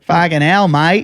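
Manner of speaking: brief put-on Aussie accent. Shown as a demonstration. Co-host showing off the only Aussie they can do, mock Aussie accent. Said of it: "Can I do my Aussie?".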